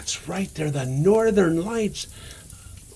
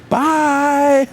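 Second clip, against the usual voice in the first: big bright farewell then a jolly laugh; jolly goodbye; 10 semitones higher, 10 dB louder than usual. Acted. Santa waving off the children, jolly loud goodbye. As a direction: shout bye and laugh like Santa.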